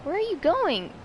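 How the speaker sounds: high called question; calling out. Real, not acted. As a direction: call after them. Calling after someone off camera.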